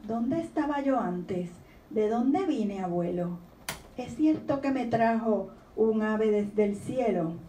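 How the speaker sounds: gentle storybook reading voice; reading a poem aloud. Acted. Author reading her poem to the audience, gently. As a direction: read the child's questions like a poem.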